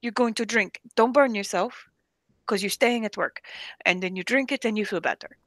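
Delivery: lightly imitated Jordanian boss; bossy remedy in a put-on Arabic accent; mock Arabic accent, matter-of-fact; strong Arabic accent. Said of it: "somebody with a strong accent".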